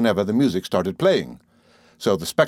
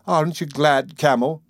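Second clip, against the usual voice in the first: sweet; 5 semitones higher than usual. A narrator's reading. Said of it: "demanded Betty sweetly".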